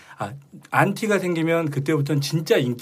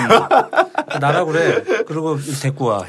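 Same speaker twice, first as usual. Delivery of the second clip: laughing it off; 4 dB louder, slower than usual. Real, not acted. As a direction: talk through laughter. Laughing reply about short tongue.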